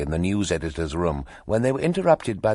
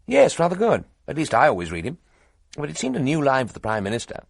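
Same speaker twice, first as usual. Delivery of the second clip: high, loud and bubbly; eager young toff; 6 semitones higher, 4 dB louder than usual. A narrator's reading. Cheerful young reporter telling two editors gossip, gushing. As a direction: rattle on brightly, pleased with the news.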